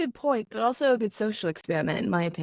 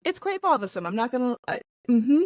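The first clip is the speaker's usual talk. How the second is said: prim Mary Poppins British; American faking a posh English accent; put-on British accent; 2 semitones higher, 3 dB louder than usual. Co-host complaining, in prim mock British.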